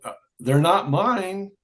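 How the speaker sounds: high, drawn-out hedging; retold reluctance. Waiter hedging to a customer about borrowed tapes, reluctant.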